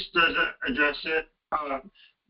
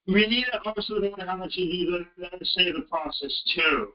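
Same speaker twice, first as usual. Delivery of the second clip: garbled, cutting-out phone line; words dropping out on a bad connection; radio breaking up. Real, not acted. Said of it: "It sounds like you're breaking up".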